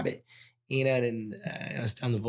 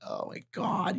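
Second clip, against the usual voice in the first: whispered, wiped out; whispered oh my God; drained whisper; slower than usual. Retold or imitated. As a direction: breathe it out, spent. Retold exhaustion after session.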